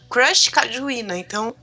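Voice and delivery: choking mid-sentence on a drink; words cut off by choking. Real, not acted.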